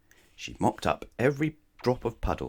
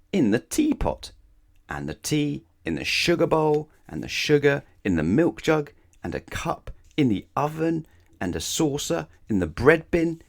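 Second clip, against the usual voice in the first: mounting dismay; 8 semitones higher, 5 dB louder than usual. A narrator's reading. Listing muddled places, mounting outrage.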